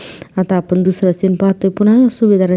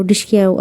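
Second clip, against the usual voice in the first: mock gunshot noise again. Nagraj miming the shot to Mahipat, mock gunshot noise. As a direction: repeat the "dishki" toy-gun bang. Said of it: "असं करून".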